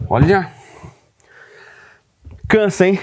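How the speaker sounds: panting, high-pitched. After lifting a heavy inverter onto the workbench, out of breath. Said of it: "Eu tô até ofegante aqui".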